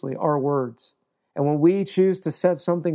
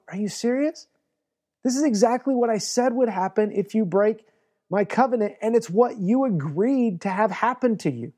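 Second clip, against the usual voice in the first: incredulous God voice, pitched up; exasperated God; 5 semitones higher than usual. Retold or imitated. God in heaven answering Joshua, exasperated and raised. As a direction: play God rolling his eyes at Joshua. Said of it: "God's standing in heaven going".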